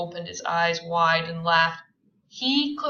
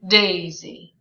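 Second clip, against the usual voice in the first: loud call; 8 dB louder than usual. Acted. Tom calling her name.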